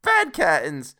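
high, loud exclamation; brazen confirmation. A narrator's reading. Charwoman answering Joe's disbelief about the curtains, brazen. Woman gleefully confirms the loot.

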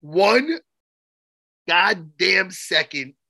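slow, drawn-out mock accusation; a friend faking offence over a joke; mock outrage. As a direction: drag it out like fake fury.

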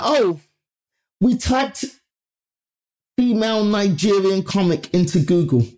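high, blithely clueless executive; mimicked producer.

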